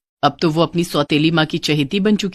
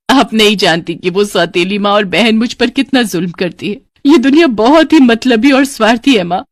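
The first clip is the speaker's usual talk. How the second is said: wronged daughter pleading to her dead mother, higher and louder at the start; दुखी बेटी; 3 semitones higher, 4 dB louder than usual. Acted. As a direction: plead like a hurt girl. (दुखी, शिकायत भरी गुहार)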